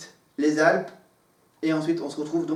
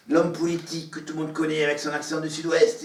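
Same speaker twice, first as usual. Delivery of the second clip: quick, lightly put-on southwest French accent; a hint of southwestern French accent, rattled off; Jean Lassalle's southwestern accent; faster than usual. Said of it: "avec mes imitations".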